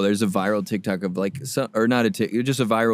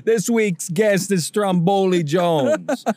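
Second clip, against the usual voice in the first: slow, higher, hammed-up guest announcement; mock host intro; 8 semitones higher, 3 dB louder, slower than usual.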